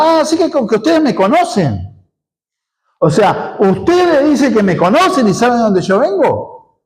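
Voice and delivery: high, mocking "oh, so you know me"; sarcastic Jesus. Pastor voicing Jesus mocking the crowd, sarcastic. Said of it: "Y Jesús está siendo sarcástico".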